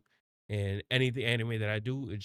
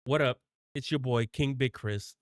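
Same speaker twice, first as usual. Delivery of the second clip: hype intro; 3 dB louder than usual. Shown as a demonstration. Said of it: "I'm just gonna be myself".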